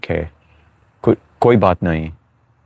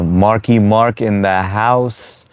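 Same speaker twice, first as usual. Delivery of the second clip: drawn-out mock announcer intro; hype announcer call; 2 semitones higher, much slower than usual. Streamer hyping a viewer's arrival in chat, drawn-out mock announcer call. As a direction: stretch it out like a ring announcer.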